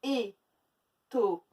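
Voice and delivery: Étonnant drawn out slowly, beat by beat; slow syllables. Shown as a demonstration. Teacher counting syllables with pupils, slow. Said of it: "Trois syllabes".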